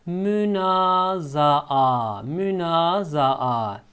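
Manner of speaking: Münazaa drawn out slowly, the long final aa held; slow clear model word. Shown as a demonstration. Arabic teacher modeling Münazaa for students, slow and clear. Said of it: "teacher spells out a new word".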